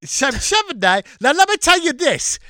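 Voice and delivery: put-on British chimney-sweep voice; mock Cockney. Podcaster as a sweep threatening an unborn baby, hammed-up Cockney. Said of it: "You're not Cockney".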